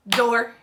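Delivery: Door as one short, punched beat; clapped-out syllable. Shown as a demonstration. Teacher clapping out a word for children, Door in one punchy beat. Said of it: "Let's try that again".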